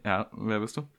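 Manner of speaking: hiccup catching the words. Real, not acted. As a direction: talk between hiccups. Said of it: "Ah, immer noch Schluck".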